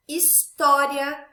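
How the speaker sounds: "história" slowly, with a loud, long TÓ; stress on antepenultimate syllable. Shown as a demonstration. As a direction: stretch and punch TÓ in "história". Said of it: "sílaba tônica na antepenúltima sílaba".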